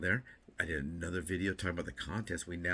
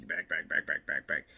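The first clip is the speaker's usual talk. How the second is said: louder repeated back; calling back; 7 dB louder than usual. Real, not acted. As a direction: call out back, back, back. Gesturing backward to viewers.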